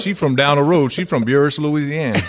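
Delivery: folksy Southern Louisiana talk; Louisiana accent. Acted. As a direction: answer like a Louisiana local. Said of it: "that's Louisiana talk".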